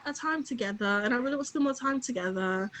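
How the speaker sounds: lightly mock-British sweet-talk; a touch of put-on British accent; imitated British accent. Imitates British guy texting her.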